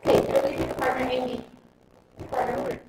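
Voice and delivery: loud workshop commands over the crowd; energetic seminar coach barking instructions; calling out to the room. Real, not acted. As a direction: project to everyone standing up. Coaching the room through an exercise.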